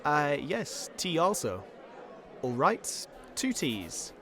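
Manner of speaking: clean received pronunciation, lightly voiced; a polite Englishman ordering in RP; RP accent. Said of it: "And also be Trev. So he's just R P".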